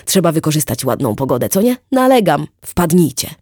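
loud, high boastful chatter; hearty boastful neighbour. Acted. Wit to Erika, bragging about his memory, loud hearty chatter. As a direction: show off his memory with gusto. Wit pushing a barbecue invitation.

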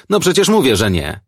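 high, loud start dropping sharply; exasperated retort. A narrator's reading. Old woman to police asking after Marian, exasperated. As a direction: snap it, fed up with being asked.

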